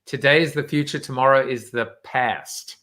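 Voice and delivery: put-on American accent, past with a flat a. Shown as a demonstration. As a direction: read the quote in an American accent. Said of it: "I'll do it in my American accent".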